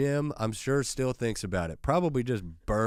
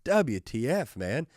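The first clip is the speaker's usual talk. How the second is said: acted protest building to high, loud indignation; mock outrage; 7 semitones higher, 6 dB louder than usual. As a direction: start aggrieved, build to a hammed-up yell. Acts out his outraged text reply.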